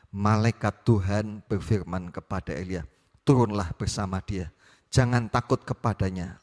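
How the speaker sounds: steady, measured Bible reading voice; scripture reading. Acted. Pastor reading the Elijah passage to the congregation, measured. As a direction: read the passage aloud to the congregation.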